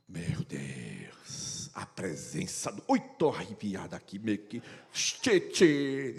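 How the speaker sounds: a hushed, hammed-up holy thrill; awestruck churchgoer. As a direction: swoon over the lights like a goosebumped believer. Mocking awed churchgoer in lights.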